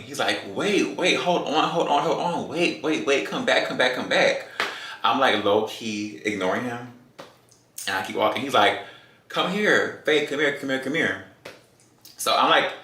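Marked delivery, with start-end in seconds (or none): 0.5-4.5 mock yell. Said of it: "He's yelling". 9.3-11.2 calling after. Retold or imitated. Boyfriend calling her back.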